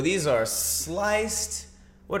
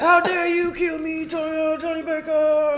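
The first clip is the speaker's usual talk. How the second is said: high, slow little spider voice; squeaky spider voice; 13 semitones higher, slower than usual. Retold or imitated. Spider scolds its killer in a joke, high and slow. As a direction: play the offended spider, pitched way up. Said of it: "and they're like".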